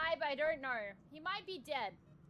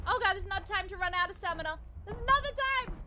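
panicked yelling; 2 semitones higher, 7 dB louder than usual. Real, not acted. Fleeing monster.

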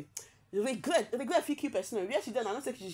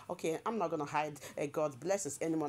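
softer mock American accent; 4 semitones lower, 5 dB quieter than usual. Reading Sophia's post again in an American accent. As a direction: say it in a quiet put-on American accent. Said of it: "Na her American accent be this one".

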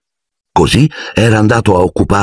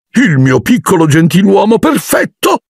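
adoring sigh. A narrator's reading. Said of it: "sospirò zia Petunia".

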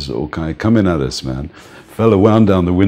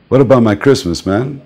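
begging for a tip; 6 semitones higher, 5 dB louder than usual. Retold or imitated. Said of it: "They say".

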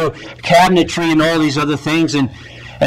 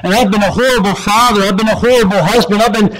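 pleading confession; 6 semitones higher than usual. Acted. Repentant father pours out.

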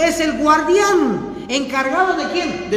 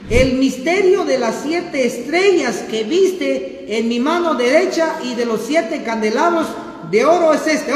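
scripture reading. Shown as a demonstration. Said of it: "Dice así".

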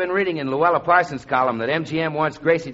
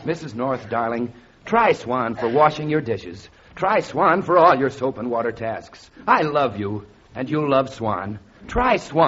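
flat wooden acting. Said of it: "You call that acting? ... you've got no feeling".

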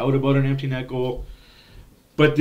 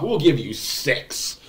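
laughing through the quote; 2 semitones higher, 4 dB louder than usual. Real, not acted. Laughing at own league joke.

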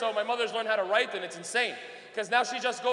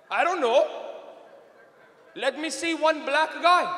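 imitated father; 3 semitones higher, slower than usual. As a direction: make Dad's hesitant request, slow at the end. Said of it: "He goes".

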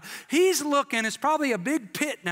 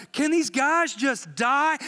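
slow, louder exasperated demand; frustrated king wanting them dead, slow and louder; 5 semitones higher, 4 dB louder, slower than usual. Acted. King Nebuchadnezzar fuming at the survivors, slow and loud. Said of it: "he's just like".

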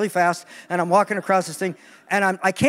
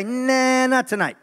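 God's teasing refusal. Retold or imitated. God telling eager Pentecostals to cool down, teasing. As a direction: brush them off lightly. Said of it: "God might say".

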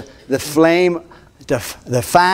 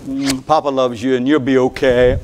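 soothing grandpa; 4 semitones lower than usual. Retold or imitated. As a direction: reassure a little girl. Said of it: "grandpa comforting girl".

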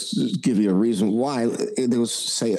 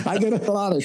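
laughing; 10 semitones higher, faster than usual. Real, not acted. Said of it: "laughing through it".

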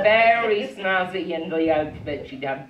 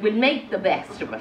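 brisk, higher, upbeat resolve; very positive; 4 semitones higher, faster than usual. Acted. Swan daughter rallies the others, briskly positive. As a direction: chirp it quickly, looking on the bright side. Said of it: "'cause she was very positive".

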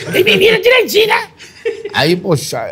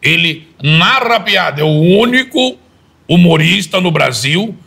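apresentador de auditório, começo agudo e alto, depois devagar; imitação do Faustão. Shown as a demonstration. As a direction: anuncie como apresentador de domingo, arrastando as frases. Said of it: "Imita um pouquinho só do Faustão". (imitando o Faustão ao apresentar Rossini, devagar e empolgado)

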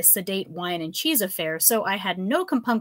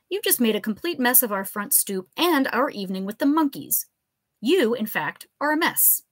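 stern scolding; 4 semitones higher than usual. Acted. Liz scolding the professor.

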